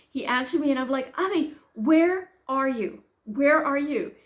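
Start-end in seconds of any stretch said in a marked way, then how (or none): 1.2-4.1 louder, higher, drawn-out demand; retold exasperated call. Stranded mother phones her missing son, exasperated. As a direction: call out insistently, stretching the question.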